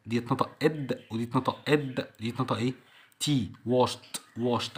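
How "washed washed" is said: "washed" as one syllable, washt; T ending. Shown as a demonstration. Teacher explaining the ending after SH, T sound. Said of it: "عشان قبلها اس اتش".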